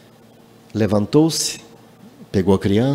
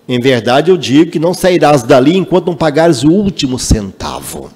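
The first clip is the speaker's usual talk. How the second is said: preaching scripture; 4 semitones higher, 5 dB louder than usual. Acted. Preacher quoting Jesus to the congregation, solemn and forceful. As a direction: proclaim Jesus' words to the congregation.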